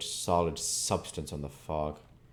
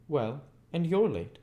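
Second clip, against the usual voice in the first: 1 raised rough retort; 10 semitones higher, 4 dB louder than usual. A narrator's reading. Orlick's retort.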